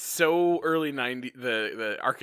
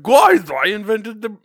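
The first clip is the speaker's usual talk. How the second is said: high, loud, slow girl impression; Tanya voice; 9 semitones higher, 14 dB louder, slower than usual. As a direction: try a high squeaky voice. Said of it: "I can't do her voice".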